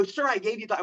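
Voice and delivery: a touch of helpless pleading; mild retold pleading. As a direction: lightly act out a polite objection. Acted polite protest to the hustler.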